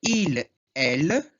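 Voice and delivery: il said slow and clear, drawn out; slow teacher demo of il, elle; French pronunciation demo. Shown as a demonstration. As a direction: model the French pronoun il for learners. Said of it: "tem três letras aqui, mas não se pronuncia".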